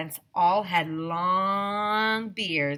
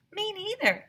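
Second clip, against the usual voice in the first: put-on high, eager girl agreeing; Emily backing up Andrea, high voice; Emily's voice. A narrator's reading. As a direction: chirp along with your friend. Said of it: "said Emily".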